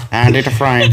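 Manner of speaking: mocking a botched celebrity voice; lightly imitated cartoon neighbour, amused; Cleveland Brown. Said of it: "You sounded more like Cleveland Brown".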